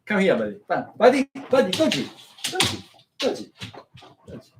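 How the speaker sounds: distant calls to the dog, high and faint; calling out from far off, half out of earshot. Real, not acted. Owner calling his dog in from outside, far off and high.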